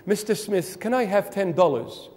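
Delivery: formal. Acted. Child asking dad for money, formal. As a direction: ask with careful courtesy. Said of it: "if you're gonna be formal".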